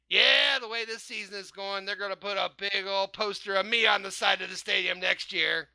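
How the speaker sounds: put-on lightly done Canadian accent; a hint of Canadian, eh. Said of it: "That's your Canadian accent?".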